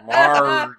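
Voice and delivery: loud high Boston Marge!, r dropped; Boston accent. Shown as a demonstration. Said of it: "With my Boston accent".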